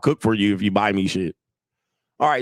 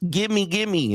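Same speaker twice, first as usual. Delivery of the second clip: mock needy girlfriend; 8 semitones higher than usual. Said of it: "they be like".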